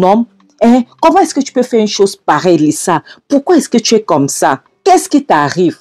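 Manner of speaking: acted angry reproach. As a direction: push the outrage up in pitch, demanding answers.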